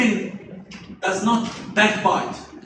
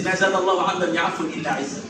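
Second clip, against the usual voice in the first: fast hadith quote; 3 semitones lower, much faster than usual. Shown as a demonstration. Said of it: "the Prophet said".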